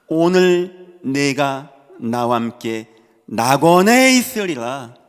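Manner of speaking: loud, very slow, drawn-out words; solemn scripture declamation. Acted. Preacher declaiming Jesus's promise to the man beside him, solemn and loud. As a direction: proclaim each phrase with long, weighty pauses.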